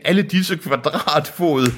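high, slow awe; theatrical high marvelling; acted amazement. A narrator's reading. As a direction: draw it out in high-pitched wonder. Deacon marvels at the land.

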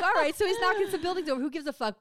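a mildly bored moviegoer; unimpressed. Retold or imitated. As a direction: toss it off like nothing's happening. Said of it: "I'm like".

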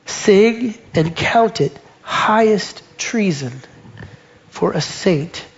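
slow, measured hymn reading; poem recital. Acted. Preacher reads the poem to the congregation, slow and measured. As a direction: read each line like a hymn verse.

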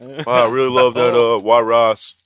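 put-on accent, drawn out at the end; deliberately wrong accent passed off as Chinese; joking fake accent, last words stretched; red-herring "Chinese" accent. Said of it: "This will be our Chinese accent".

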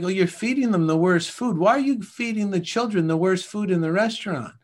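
an alien appalled at the kids' menu, voiced high and loud; mock alien, aghast. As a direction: ask it like a shocked visitor from space. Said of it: "they're like".

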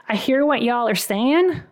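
light Southern accent; hint of a Southern US accent. Shown as a demonstration. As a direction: say it with a touch of Southern twang. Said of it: "Maybe you do with a Southern accent".

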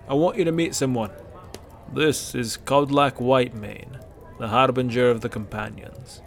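lightly voiced hearty old Nord; jovial Bracknell.

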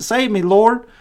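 high, loud cry for help; shouted plea. Acted. Peter sinking in the waves, crying out loud to Jesus. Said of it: "he shouted".

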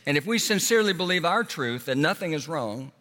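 lightly voiced defiant parent. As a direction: argue it away like a parent in denial. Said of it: "you as a parents respond by saying".

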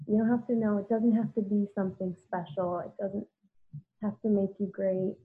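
quiet, gentle voice talking herself through pain; soft self-soothing. Retold or imitated. Crying on the bathroom floor, she comforts herself gently. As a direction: hush and comfort yourself like a buddy.

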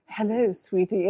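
lightly imitated stately, sultry greeting; a hint of a regal, seductive woman; stately, sexy voice. Retelling an actress's reply to a fan, stately and sexy. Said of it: "her very stately, exquisitely sexy voice".

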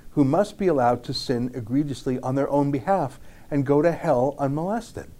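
measured, reflective reading of a memoir passage; reading aloud. Acted. Reads Jacobson's memoir aloud.

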